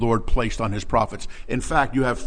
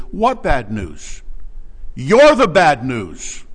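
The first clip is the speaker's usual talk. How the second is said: slow, punched comeback, louder on the end; slow emphatic rebuke; slow retort; 2 semitones higher, 5 dB louder, much slower than usual. Acted. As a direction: throw it back at them, word by word. Prophet's retort to mockers.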